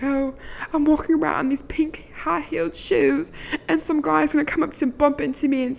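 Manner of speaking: dreamy whisper. Pretend. Daydreaming aloud about a movie meet-cute, whispering.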